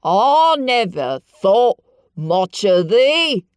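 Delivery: loud, slow Yorkshire tirade; haranguing old man. A narrator's reading. Ben harangues Mary from the ladder, loud and angry. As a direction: berate the girl. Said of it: "he harangued".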